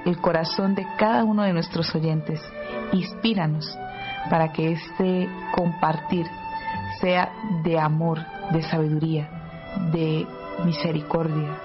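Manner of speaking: spoken prayer. Real, not acted. Host invoking the Holy Spirit for the listeners, praying. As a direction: pray it aloud, phrase by phrase.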